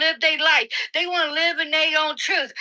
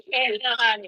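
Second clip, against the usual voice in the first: lightly mimicking the man's drawled yeah honey; a sneering parody of him; mocking the man who called himself chocolate, lightly imitated; mocking imitation. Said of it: "This chocolate goes".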